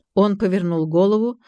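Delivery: ordinary delivery, nothing marked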